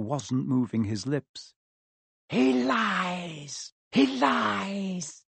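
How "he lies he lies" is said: higher, otherworldly hiss of accusation; a disembodied voice crying out; high eerie voice. Acted. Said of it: "a high voice spoke".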